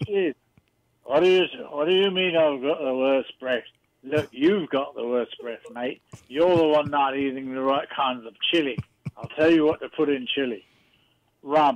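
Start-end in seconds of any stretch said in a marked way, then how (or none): 1.0-11.8 pirate character voice, like a film pirate. Bringing on a requested guest to tell a chili story: Jack Sparrow voice. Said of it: "this is Jack Sparrow from that movie".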